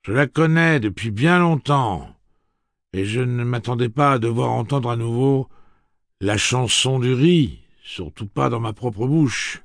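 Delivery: high, loud, stately gunslinger speech; Roland's formal address. Acted. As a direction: announce it grandly to the whole crowd. Roland speaks.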